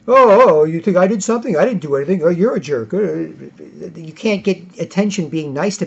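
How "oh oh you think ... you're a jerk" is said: mild mock passive-aggressive.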